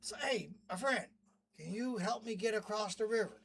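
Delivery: a hint of a wheedling scorpion; pleading scorpion.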